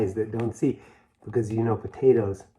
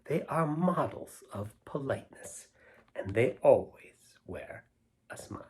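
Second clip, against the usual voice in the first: poem reading; 4 dB louder than usual. Acted. Reading a silly poem aloud to the kids, rhythmic and lilting. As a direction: savour each line for the kids.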